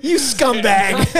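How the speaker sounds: slow, laughing mock African accent; Pride Lands accent. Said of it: "do your Pride Lands accent".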